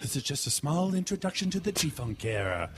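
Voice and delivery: lightly voiced rapper impression; a famous rapper. Comedian showing how the rapper sounds, lightly voiced. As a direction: recite it as a mellow rapper. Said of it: "Snoop Dogg is basically Howard Cosell".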